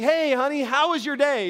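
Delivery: cheery wife. Retold or imitated. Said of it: "his wife's like".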